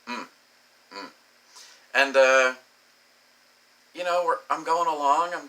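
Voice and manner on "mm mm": short mock moan; two small hummed moans, lightly imitated; imitated cute moan. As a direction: mimic a cute little moan. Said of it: "lets out this cute little moan".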